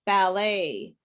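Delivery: "ballet" ending in an open "ay", T silent; "ballet" as a demo word, final T dropped. Shown as a demonstration. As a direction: say "ballet" as "bal-AY". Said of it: "There's no sound of T".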